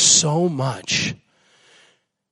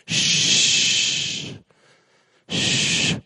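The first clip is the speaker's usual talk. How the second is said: hushing shh. Acted. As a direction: hush them gently like calming a child. Jesus hushing the storm.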